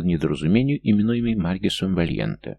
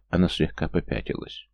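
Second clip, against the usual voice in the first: usual speaking voice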